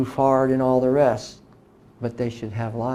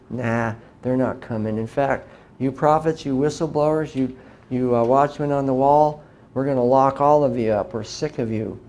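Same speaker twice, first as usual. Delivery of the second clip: mocking dismissive crowd. Mocking the people who ignore warnings.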